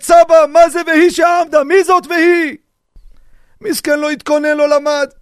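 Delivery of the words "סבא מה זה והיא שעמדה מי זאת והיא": put-on high, loud child's question; grandson asking. Grandson questions unprepared grandfather at the seder, high child voice. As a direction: ask grandpa like an eager grandson. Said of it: "ישאל אותך הנכד".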